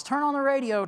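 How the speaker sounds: man rushing in urges the church to listen, urgent; urgent call. Retold or imitated. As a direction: burst in calling for the radio. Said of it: "runs in from the parking lot and says".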